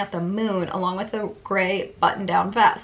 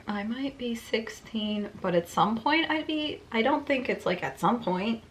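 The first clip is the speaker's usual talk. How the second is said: puzzled reread; 6 dB quieter than usual. Real, not acted. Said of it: "rereading own confused sentence".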